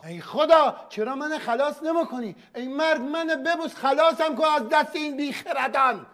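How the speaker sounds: high-pitched, despairing outburst; exasperated pleading. Acted. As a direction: wail for rescue from these fools. Host begs rescue from foolish contestants. (درمانده و ملتمسانه با صدای بالا)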